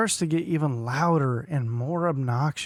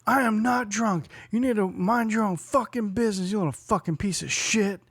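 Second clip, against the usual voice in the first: mock drunk denial; 6 semitones higher than usual. Imitating the mom yelling at her son in the lot. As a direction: deny it angrily like a drunk mom. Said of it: "she's like".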